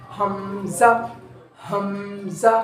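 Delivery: demonstrating हमज़ा clearly for students; throat sound demo. Shown as a demonstration. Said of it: "हमने इसको पढ़ना कैसे है, निकालना कैसे है".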